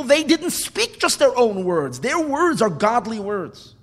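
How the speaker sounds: emphatic roll call of revered names; fervent preaching. Acted. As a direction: build from firm emphasis to a high, slowed declaration.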